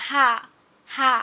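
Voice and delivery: হা with the mouth wide open. Shown as a demonstration. Teacher demonstrates the letter for students, open-mouthed হা. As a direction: open right up and release হা from a free throat. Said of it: "একদম গালটা হা করে উচ্চারণ করব".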